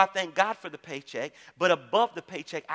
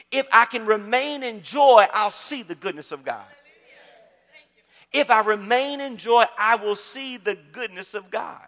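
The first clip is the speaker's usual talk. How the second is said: loud, higher opening easing into the promise; emphatic preaching; 3 semitones higher, 7 dB louder than usual. Real, not acted. Pastor repeating a promise to the congregation, emphatic preaching. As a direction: proclaim it, then let the line settle.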